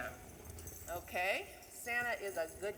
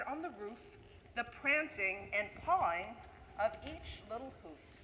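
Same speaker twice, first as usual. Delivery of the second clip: lively storybook reading of a Christmas poem; a teacher reading The Night Before Christmas to the class; reading to children; 2 semitones higher than usual. Acted. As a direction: read it like a bedtime story to kids.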